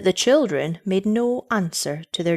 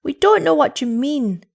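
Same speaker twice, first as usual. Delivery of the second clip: put-on high, louder childish protest; acted children's cry, pitched up; cried out; 8 semitones higher, 5 dB louder than usual. A narrator's reading. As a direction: object as frustrated children. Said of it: "they cried".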